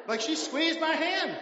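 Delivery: slow, high and loud, leaning on hand; drawn-out emphasis. Real, not acted. Pastor telling church about wife's grip, drawn-out emphasis. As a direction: stretch it out to make them feel it.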